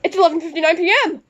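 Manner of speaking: high-pitched shouted New Year countdown; excited countdown shout. Acted. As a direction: yell the countdown like midnight hit.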